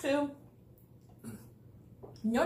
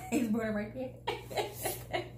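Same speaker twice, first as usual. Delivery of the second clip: laughing; 4 dB quieter, much slower than usual. Real, not acted. Laughing at child's burned mouth.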